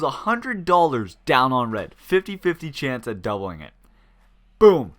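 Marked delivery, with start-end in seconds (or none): 4.6-4.9 a punchy, loud "Boom"; excited loud boom. Real, not acted. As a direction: slam the word down like a win. Roulette win exclaimed.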